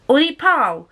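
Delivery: high-pitched Scottish "Ori Pal"; greeting in a put-on Scottish accent. Shown as a demonstration. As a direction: call out a friendly Scottish hello. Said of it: "give you a word or phrase in Scottish".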